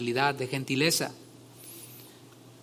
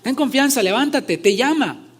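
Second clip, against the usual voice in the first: higher, louder encouraging call; 7 semitones higher, 6 dB louder than usual. A narrator's reading. Crowd telling the blind man Jesus calls, loud call. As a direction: shout to him that Jesus is calling. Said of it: "llamaron al ciego diciéndole".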